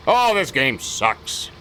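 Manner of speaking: slow, drawn-out mock gripe; mock complaining. Imitating players griping about the new game, mock complaining. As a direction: imitate players moaning, lightly hammed up. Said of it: "everybody complained about it".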